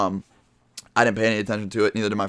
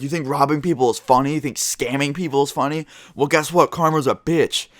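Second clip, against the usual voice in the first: higher-pitched retelling of an accuser's rant; mock angry confrontation; 5 semitones higher than usual. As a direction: imitate someone scolding and accusing. Retold robber's angry confrontation.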